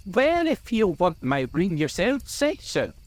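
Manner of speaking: high, heated challenge; indignant cry. A narrator's reading. Bilbo accuses Gandalf of wanting the ring, crying out. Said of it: "cried Bilbo".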